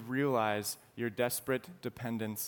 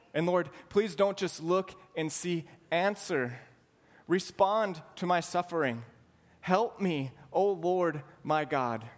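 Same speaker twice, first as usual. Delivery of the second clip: voicing David's anguished plea, a bit higher; pleading prayer; 5 semitones higher than usual. Preacher voicing David begging God to look at him, pleading. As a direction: cry out to God as if drowning.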